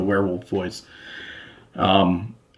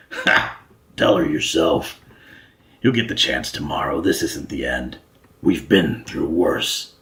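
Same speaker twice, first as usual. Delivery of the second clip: lower, laughing defiance; defiant old Count; 6 semitones lower than usual. Acted. Count reassuring the despairing king, defiant and laughing.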